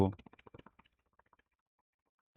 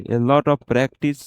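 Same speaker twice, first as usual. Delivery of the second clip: slow repeat; much slower than usual. Shown as a demonstration. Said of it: "a lot of practice रखिए".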